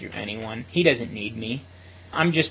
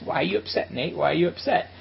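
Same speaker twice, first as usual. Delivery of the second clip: higher-pitched playful needling; teasing; 4 semitones higher than usual. Retold or imitated. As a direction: imitate a friend poking fun. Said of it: "He's kinda teasing me like this".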